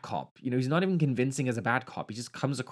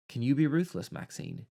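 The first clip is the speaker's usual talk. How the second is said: put-on English accent. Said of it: "This is an English accent".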